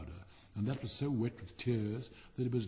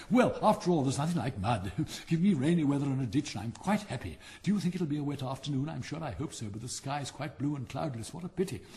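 cheerful chatty frog. Acted. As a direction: gush happily about mud and rain. Frog character voice.

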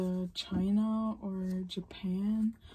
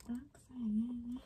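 whispered a song title; 3 semitones higher, 6 dB quieter than usual. Pretend. Song stuck in head, whispered.

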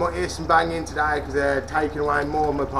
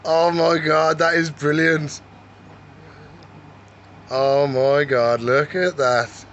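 louder, slowed-down awe; real delight at the feeding; can't believe how cool this is; amazed excitement; 4 dB louder, slower than usual. Real, not acted. Chameleon eats from his hand.

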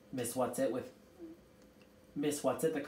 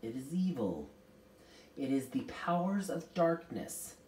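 solemn, measured pronouncement; ringing out. A narrator's reading. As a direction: pronounce it gravely. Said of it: "Miss Witch's voice rang out".

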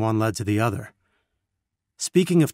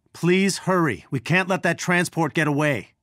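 higher-pitched, pressing urgency; urgent; 5 semitones higher than usual. Acted. Urging team to stop the transport, urgent. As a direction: urge them on before it's too late.

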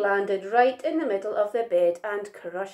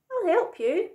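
high, small character voice; eager little monkey; 9 semitones higher than usual. A narrator's reading. Little Monkey offers to help pick figs, eager.

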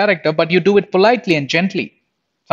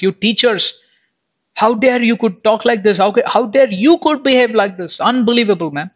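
higher and indignant, a lightly voiced scolding Jesus; sharp rebuke; 4 semitones higher than usual. Jesus rebuking the Pharisees, sharp and indignant. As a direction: rebuke the Pharisees with mock outrage. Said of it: "very sharp".

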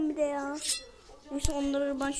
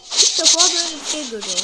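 louder, fast rush of amazement; amazed and fast; 11 dB louder, faster than usual. Real, not acted. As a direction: gush it out in disbelief. Amazed at game event.

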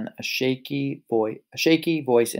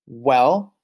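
roaring; 5 dB louder than usual. Acted. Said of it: "roared the ro-, wolf".

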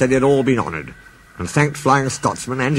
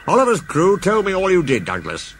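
a higher, knowing boss voice; a boss revealing what he knows; Fat Controller's voice; 7 semitones higher than usual. Acted. The Fat Controller tells Douglas he knows all.

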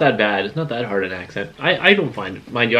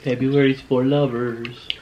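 mock romantic; 2 semitones higher, much slower than usual. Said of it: "romantic line for the camera".

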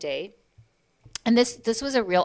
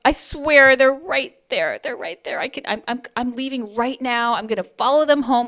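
louder, laughing pleading; mock panicked plea; 5 semitones higher, 10 dB louder than usual. Mother pleading not to be reported, laughing and louder. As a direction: beg through a laugh. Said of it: "I was just like".

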